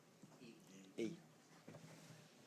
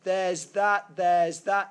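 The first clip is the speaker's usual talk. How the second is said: louder, overexcited "oh yeah" student voice; mock student, sudden insight; 3 semitones higher, 8 dB louder than usual. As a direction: play the student who thinks he's got it. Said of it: "and they go".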